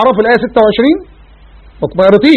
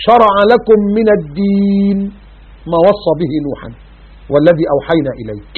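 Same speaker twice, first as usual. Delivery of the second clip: Quran recitation; slower than usual. Acted. Recites verse.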